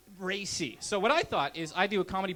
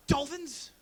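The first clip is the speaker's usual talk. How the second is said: bright question; 8 semitones higher, 4 dB louder than usual. Retold or imitated. Manager's punchline suggestion.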